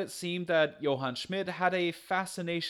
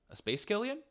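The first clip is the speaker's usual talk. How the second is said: blurted confession; 7 semitones higher, faster than usual. Real, not acted. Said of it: "I said that out loud, didn't I?".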